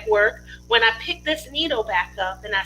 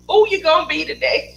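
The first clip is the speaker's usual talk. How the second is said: mother's teasing question; 5 semitones higher, 4 dB louder than usual. Retold or imitated. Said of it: "she says".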